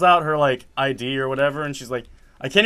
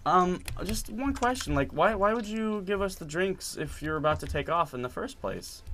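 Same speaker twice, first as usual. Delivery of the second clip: soft, higher, hesitant polite question; super polite; 4 semitones higher, 6 dB quieter than usual. Retold or imitated. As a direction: ask very politely, starting soft and trailing off. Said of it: "literally super politely".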